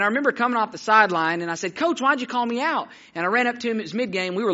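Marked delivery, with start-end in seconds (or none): 1.8-2.9 put-on higher-pitched puzzled kid; lightly acted boy calling up to his coach; boy questioning coach. Boy asking coach why he was pulled out, puzzled.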